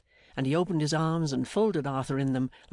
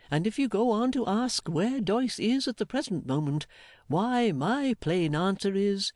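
higher, hearty and emphatic, building to a reveal; jolly Mister Meagles; 3 semitones higher than usual. Acted. Voices Meagles revealing his surprise.

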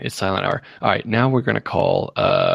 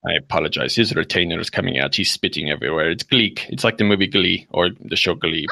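lowered voice after the scolding; apologetic prank-call father; 4 semitones lower than usual. Acted. Father apologising to stranger for spitting son, apologetic. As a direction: explain it away in character.

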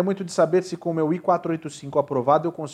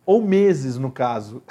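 imitated little voice; 4 dB louder, slower than usual. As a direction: playfully quote a little voice butting in. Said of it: "uma vozinha veio no meu ouvido e falou assim". (imitando de leve uma vozinha)

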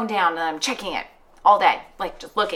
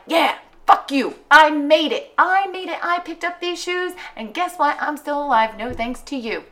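mock triumphant; 6 semitones higher than usual. Triumphant retort quote.

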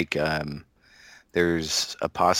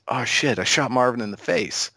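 Travolta impression; 5 semitones higher than usual. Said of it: "he says".

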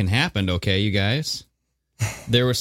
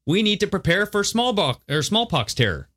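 much higher-pitched mock impression; Bill Gates; 9 semitones higher than usual. Co-host quoting a smallpox warning, high impression. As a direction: pitch it way up to mimic a public figure's warning. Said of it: "Bill Gates shit where he's saying".

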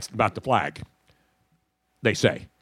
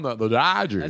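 lightly imitated announcer, slurred; put-on radio voice; Ross Porter; 3 semitones lower than usual. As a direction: do the broadcaster's signature team name. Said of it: "you know where that came from?".

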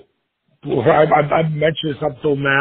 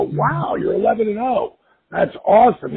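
wow reaction; 6 semitones higher than usual. Retold or imitated. Reacting to good news.

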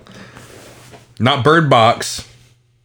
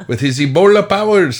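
laughing; 6 semitones higher than usual. Real, not acted. Laughing while telling meme.

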